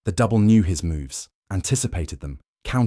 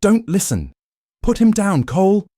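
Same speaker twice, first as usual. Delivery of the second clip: much higher, full-throated yell; desperate shout; 9 dB louder than usual. Acted. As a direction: scream at him to stop. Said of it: "Marcus shouted".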